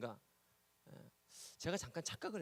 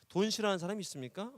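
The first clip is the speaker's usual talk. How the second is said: loud question; 6 semitones higher, 7 dB louder than usual. Real, not acted. Preacher asks congregation loudly.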